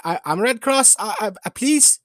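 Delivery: high, stammering, panicked; frightened pleading. Acted. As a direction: beg for your life.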